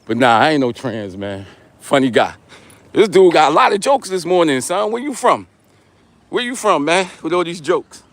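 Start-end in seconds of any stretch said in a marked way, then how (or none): 2.9-8.0 breathy, winded while walking; out of breath. Real, not acted. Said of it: "Are you out of breath?".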